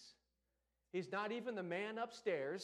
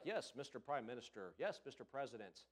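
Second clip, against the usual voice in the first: lower, softer formal deference; 6 semitones lower, 5 dB quieter than usual. Retold or imitated. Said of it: "Everybody be like".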